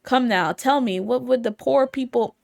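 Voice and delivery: loud hammed-up French accent. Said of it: "If only I could do a French accent".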